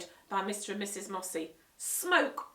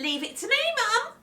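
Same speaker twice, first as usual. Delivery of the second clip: put-on higher, louder cocky boy; confident Henry; 8 dB louder than usual. Henry reassuring mum, cocky boy. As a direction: take charge.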